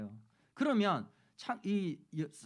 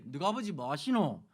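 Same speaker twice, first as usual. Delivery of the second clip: light Gyeongsang dialect, lower start; 경상도 사투리; 3 semitones lower than usual. Retold or imitated. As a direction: ask it like a Busan elder. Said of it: "경상도 말로 하면 이렇게". (경상도 사투리로 가볍게 묻는 어른)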